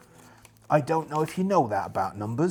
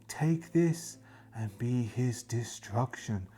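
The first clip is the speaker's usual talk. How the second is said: ghostly queen; 3 semitones lower, 6 dB quieter, slower than usual. Acted. Spirit queen giving the sword.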